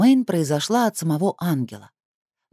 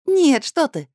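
high, loud flustered protest; 10 semitones higher, 4 dB louder, slower than usual. Acted. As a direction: blurt it out, flustered. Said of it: "взволнованно отозвалась".

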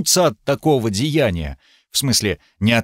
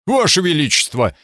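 protesting; 4 semitones higher than usual. Acted. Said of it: "запротестовал сэр Смит".

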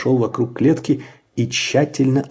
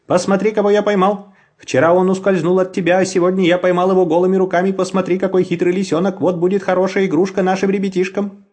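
boasting man; 6 semitones higher than usual. A narrator's reading.

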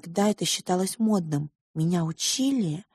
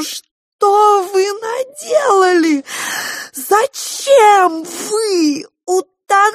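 wailing sob; 11 dB louder, much slower than usual. Acted. Girl wails over drowned parents.

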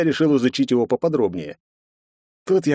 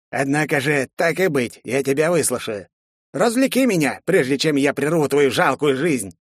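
high, disdainful undead voice; mocking skeleton; 3 semitones higher than usual. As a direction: toy with him like a bored corpse. Skeleton mocks captive hero.

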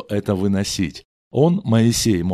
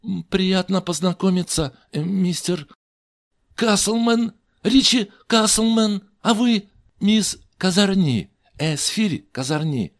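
hesitant introduction; 10 semitones higher than usual. Acted. Awkward introduction to Esther.

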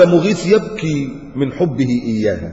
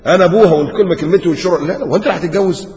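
fast, higher, laughing mock of a bossy father; mock stern father; 5 semitones higher, 3 dB louder, faster than usual. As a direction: mimic the tyrant dad half-laughing. Mocking a stubborn father.

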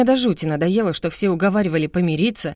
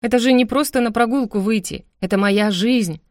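desperate plea; 4 semitones higher than usual. Acted. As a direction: pour out the despair. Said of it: "отчаянно заговорила я".

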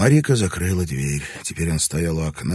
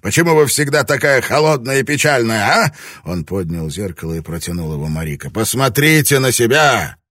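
loud, much higher angry yells; furious shouting; 5 semitones higher, 6 dB louder than usual. A narrator's reading. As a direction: rage at her. Lord raging at his wife.

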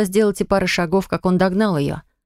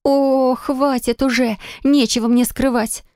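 indignant outburst; 7 semitones higher, slower than usual. A narrator's reading. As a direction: fling the denial out, outraged. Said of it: "выкрикнула она возмущённо".

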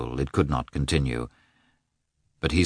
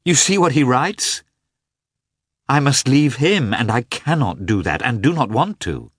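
high, loud distressed outburst; 8 semitones higher, 5 dB louder than usual. A narrator's reading. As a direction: burst out in distress.

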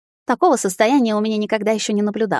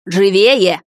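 louder, barked hurry-up; sharp order; 6 dB louder than usual. A narrator's reading. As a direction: snap at her to hurry. Heroine hurrying the maid.

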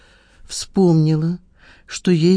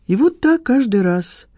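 raised pitch, voice close to cracking; voice breaking; 8 semitones higher than usual. A narrator's reading. Rejected man complains about his dates, voice breaking. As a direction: let the hurt lift and break the voice slightly. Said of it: "проговорил он срывающимся голосом".

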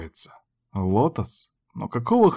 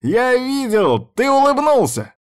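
much higher, slow sing-song gloating; gleeful teasing; 13 semitones higher, 4 dB louder, slower than usual. A narrator's reading. Yuchi teasing Izamu for smiling, gleeful gloating. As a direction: gloat at catching him.

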